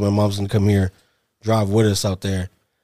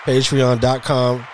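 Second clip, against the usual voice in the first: slow plug read; slower than usual. Acted. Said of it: "plug the Patreon".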